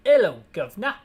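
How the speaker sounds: a lightly hammed-up British officer; British accent. HQ officer on the radio to Barry, in a mock British accent. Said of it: "attempt a British accent".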